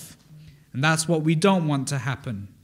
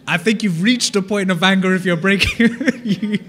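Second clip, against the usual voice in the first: laughing through the words at a joke; 4 dB louder than usual. Real, not acted. Amused teacher laughing at a class member's answer about plates. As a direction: chuckle while you finish the line.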